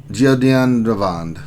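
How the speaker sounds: Giodinavand said slowly, syllable by syllable; careful attempt. Shown as a demonstration. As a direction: have a slow second go at Giodinavand. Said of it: "gonna try to say this".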